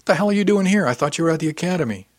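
high, loud, incredulous questioning; surprised demand. A narrator's reading. Cousin finding Philip here unexpectedly, loudly surprised. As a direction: start high and loud, then ease down.

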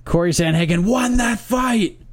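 lightly mock-emphatic reading of a listener's message; quoting an emailer. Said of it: "That's how he wrote".

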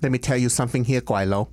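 fluent English with a Hong Kong Cantonese accent; put-on Americanized Chinese accent. Shown as a demonstration. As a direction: imitate a Cantonese takeout man's accented English. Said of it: "What kind of accent is that".

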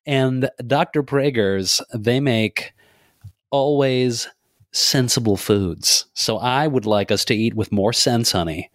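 a lightly voiced folksy dad talking to his wife; hint of a cheery suburban husband bragging about groceries; Midwestern dad. Co-host doing a Midwestern dad telling his honey, lightly voiced. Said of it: "Oh, like Midwestern dad?".

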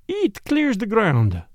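slow, musing Belgian detective; thoughtful. A narrator's reading. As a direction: let it land slowly, thinking. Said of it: "he said thoughtfully".

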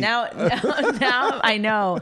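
laughing tease. Real, not acted. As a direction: tease him while laughing. Laughing teasing.

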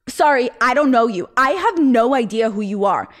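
mildly aggressive retold brush-off; pointed mock rejection, pressed on each phrase. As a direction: imitate an insistent, dismissive woman. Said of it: "the person to be so aggressive".

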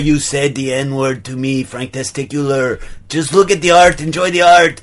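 put-on muddled French-Austrian artist accent; like a French person imitating an Austrian; affected French-Austrian accent, played straight; French Arnold accent. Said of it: "French person doing an Arnold Schwarzenegger impression".

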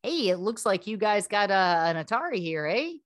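lightly voiced Canadian-sounding ad pitchman; a hint of a folksy Canadian salesman, eh; Alan Alda voice. Host mocks the Atari TV ad for co-hosts, lightly voiced pitchman. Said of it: "How is my Alan Alda impression?".

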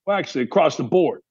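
normal talking voice

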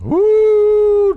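high, loud happy whoop; excited woo. Real, not acted. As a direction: cheer with delight. Delighted by mom's breakfast burritos.

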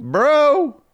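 high, loud incredulous "Bro"; shocked high-pitched bro. Real, not acted. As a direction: pop up high in disbelief. Incredulous outburst.

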